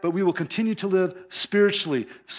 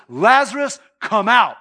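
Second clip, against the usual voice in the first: loud, high call into the tomb; commanding call; 4 semitones higher, 7 dB louder than usual. Retold or imitated. Jesus at the tomb calls Lazarus out loudly. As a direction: call him out of the grave. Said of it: "walks up to the tomb and says".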